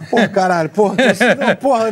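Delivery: nervous laughing curses tumbling out; giggly, flustered fan meeting his idol. Retold or imitated. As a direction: laugh through the swearing, starstruck.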